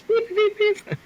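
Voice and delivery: high, loud imitated censor beeps; censor bleeps. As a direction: bleep it out like an editor. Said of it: "it would be like".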